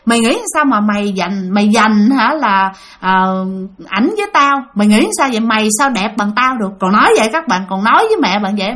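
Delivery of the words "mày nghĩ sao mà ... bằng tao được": mildly indignant imitation of a jealous spirit; retold scolding. Possessing spirit turns on the weeping mother, mild mock scolding. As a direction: challenge her with a touch of scorn. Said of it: "cái quay lại chửi mẹ các bạn".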